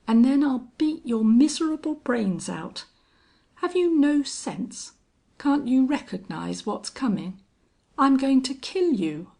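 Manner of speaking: hard, insistent menace; menacing threat. A narrator's reading. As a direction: threaten him with rising force. Wade threatens the fleeing man.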